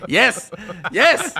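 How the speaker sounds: loud, high-pitched cheer; excited celebration. Real, not acted. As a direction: shout it in triumph. Celebrating the joke's punchline.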